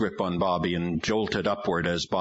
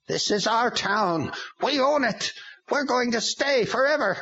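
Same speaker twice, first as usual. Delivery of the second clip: boasting demon. A narrator's reading. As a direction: claim the town like a demon. Demon claims the town.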